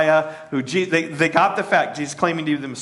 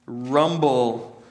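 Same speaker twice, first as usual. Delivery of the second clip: rumbling sound; 3 semitones lower, much slower than usual. Shown as a demonstration. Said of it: "they heard it like this".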